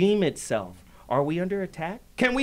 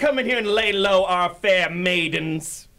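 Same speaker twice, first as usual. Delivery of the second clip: mock outrage; 4 dB louder than usual.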